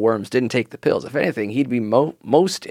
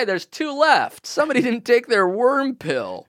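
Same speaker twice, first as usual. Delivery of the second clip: imitating the boss; 9 semitones higher than usual. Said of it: "Imagine the boss like".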